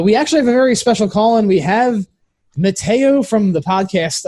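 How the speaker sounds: hyped host introducing a special guest; excited announcement. Acted. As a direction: build it up like a big reveal.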